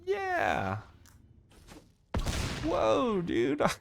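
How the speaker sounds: high, loud, hyped-up YouTuber energy. Pretend. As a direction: gush like a clickbait video host. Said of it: "That's my, that's my YouTuber voice".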